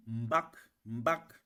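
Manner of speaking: high-tone "mbak", voice lifted on it. Shown as a demonstration. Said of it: "on fait une élévation dans la voix".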